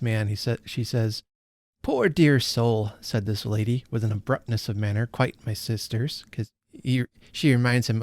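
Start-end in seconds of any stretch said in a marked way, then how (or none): 1.8-6.3 reads the passage aloud, lightly voicing Estella; unhurried storytelling read; story reading. A narrator's reading. Host reading Dickens to her book club, story narration.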